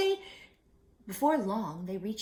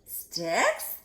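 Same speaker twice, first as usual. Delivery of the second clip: slow, louder wary question; doubtful pig; 5 semitones higher, 7 dB louder, much slower than usual. Acted. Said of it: "asked Percy".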